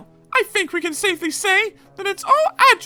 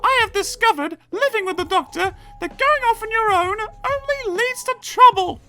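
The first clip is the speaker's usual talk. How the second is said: loud falsetto grievance; complaining lecture; 5 dB louder than usual. A narrator's reading. Companion warning against wandering off, high loud complaint.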